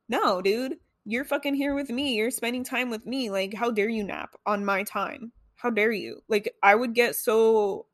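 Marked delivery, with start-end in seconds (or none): 0.1-6.2 lightly voiced offended inner child; indignant inner child. Inner child scolding boyfriend for napping, mock indignation. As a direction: play up a mildly petulant protest. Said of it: "you can tell the difference in my voice".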